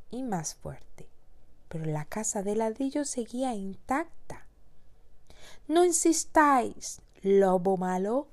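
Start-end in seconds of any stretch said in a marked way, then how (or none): 5.7-8.3 mocking laugh. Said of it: "reían los tres".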